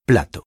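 "plato" stressed on its first syllable, pla; penultimate stress. Shown as a demonstration. Teacher illustrating the penultimate rule, "plato" stressed on pla. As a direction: hit the "pla" of "plato", let "to" fall. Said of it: "sont accentués sur l'avant-dernière syllabe".

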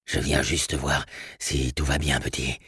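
low, soft, husky man's voice; husky but gentle stranger. Acted. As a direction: reassure a child quietly, husky and breathless. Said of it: "une voix rauque mais douce, avec un accent irlandais".

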